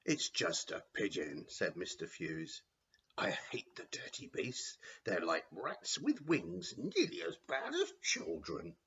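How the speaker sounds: sneering disgusted porter; Fewls' voice. Acted. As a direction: spit out the hatred of pigeons.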